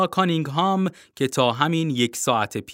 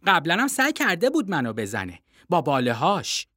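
put-on a boy's voice, higher, insistent; young boy Timothy; 5 semitones higher than usual. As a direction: read the boy higher and earnest.

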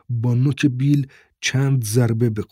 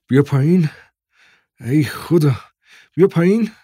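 louder, rising call to come down; excited calling; 4 semitones higher, 4 dB louder than usual. A narrator's reading. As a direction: call your child down, amazed and eager. Father excitedly calls son down. (صدا زدن با هیجان و صدای بلند)

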